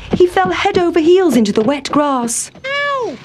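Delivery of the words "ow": high sharp yelp; yelp of pain. A narrator's reading. Town Mouse falling into wet grass, a high yelp. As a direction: cry out as you tumble.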